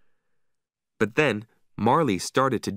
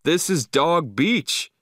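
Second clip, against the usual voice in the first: higher, insistent exclamation; indignant shout; 7 semitones higher, 3 dB louder than usual. A narrator's reading. Man insisting on the beach's freedom, indignant shout. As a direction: protest it in a raised storybook voice. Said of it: "he shouted".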